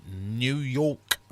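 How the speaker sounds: half-hearted New York accent, drawn out; New York accent attempt. Shown as a demonstration. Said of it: "Can't do a New York accent".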